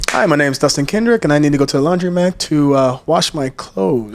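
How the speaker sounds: crisp Chicago introduction, slowing at the end; Chicago accent. Shown as a demonstration. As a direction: do your everyday Chicago accent. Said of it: "say it in a Chicago accent".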